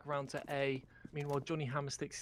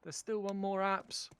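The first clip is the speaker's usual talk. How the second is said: excited casting; 5 semitones higher, slower than usual. Real, not acted. Caster hyped over Pansy's play.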